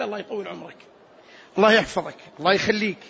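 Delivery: low, definite, separate blessings; unconditional prayer. Shown as a demonstration. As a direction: give each blessing without hedging. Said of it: "بلا استثناء". (دعاء جازم بلا استثناء)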